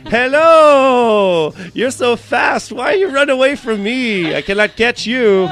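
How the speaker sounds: high, loud, shouted imitation of the girl; Russian girl impression. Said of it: "In walks in the Russian jackal".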